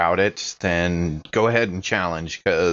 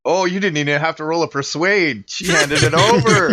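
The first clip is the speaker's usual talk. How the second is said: delighted surprise; 8 semitones higher, 5 dB louder than usual. Real, not acted.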